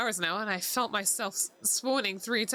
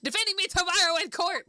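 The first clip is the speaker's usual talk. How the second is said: grand declaration; 8 semitones higher, 4 dB louder than usual. Acted. Reading a lawyer's bold line.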